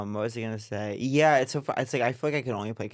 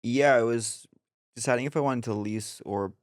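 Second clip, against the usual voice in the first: straight voice. Acted. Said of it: "what's your masochist voice".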